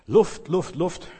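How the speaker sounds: mild acted gasp for air; short, separate pleas for "Luft"; groaning for air. Preacher voicing a craving for God, mock gasping. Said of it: "Stöhnte der junge Mann".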